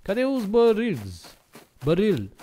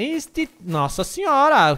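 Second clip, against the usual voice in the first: ordinary talk, nothing marked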